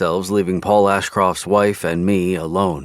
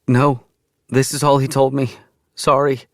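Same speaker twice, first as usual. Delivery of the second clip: female character voice; 8 semitones higher, 4 dB louder than usual. A narrator's reading. Widow answering police.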